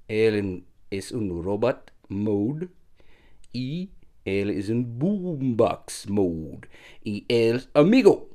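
Spanish with an American accent; English-speaker's Spanish, "boombox mode" said English. Real, not acted. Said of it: "Lo siento, mi español, poquito mal".

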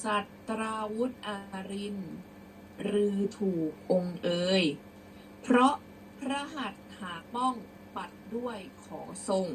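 measured verse, phrase by phrase; teacher's careful model reading; prose-style recitation. Shown as a demonstration. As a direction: read out with deliberate pauses. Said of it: "เดี๋ยวครูจะอ่านเป็นร้อยแก้ว".

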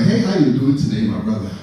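lightly faked African-accented greeting; put-on African accent. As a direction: try passing with an African accent. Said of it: "I can never fool them".

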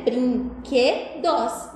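Brinquedos said very slowly, syllable by syllable, falling at the end; split into syllables. Shown as a demonstration. Teacher showing children the three syllables, slowly. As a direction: stretch Brinquedos out piece by piece. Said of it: "Essa palavra é dividida em três pedacinhos".

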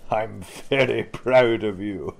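slow, proud praise; beaming praise. Acted. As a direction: savour the pride. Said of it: "he beamed".

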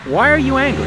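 high, loud, insistent question; exasperated demand. Acted. Interviewer repeats question, pressing harder.

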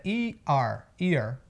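"year" broken slowly into EE and R; som de I-R. Shown as a demonstration. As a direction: glide from EE into a curled R on "year". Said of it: "o som é diferente". ("year" devagar, i... ar)

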